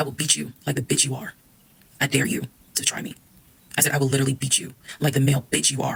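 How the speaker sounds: quiet, threatening calm. Retelling how she threatened him up close: retelling a calm threat. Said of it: "I calmly got close to him".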